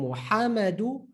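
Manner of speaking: even syllables, undoubled M in Muhammadu; single M. Shown as a demonstration. Teacher reading it before adding shadda, single M. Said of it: "So from".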